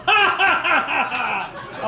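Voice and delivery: high, put-on ha-ha-ha; demonstrated big laugh. Shown as a demonstration. Speaker showing audience how to respond, mock laughing. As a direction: lean back into a fake laugh. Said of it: "Lean back and go".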